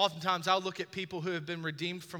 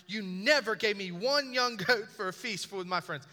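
put-on 1 aggrieved older brother; 4 semitones higher, 4 dB louder than usual. Older brother's complaint, acted.

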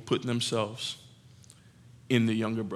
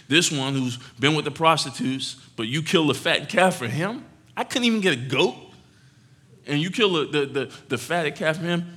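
indignant; 3 semitones higher than usual. Acted. Older son protesting to father.

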